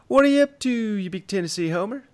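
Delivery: big teasing high call-out. Real, not acted. Host greets cousin on air.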